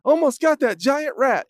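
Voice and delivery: mock triumphant dog; dog's voice. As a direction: play the proud dog who nearly caught it. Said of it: "the dogs are like".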